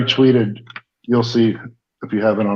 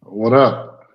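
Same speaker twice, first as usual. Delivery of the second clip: echoing bathroom. Real, not acted. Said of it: "You sound like you're in the bathroom".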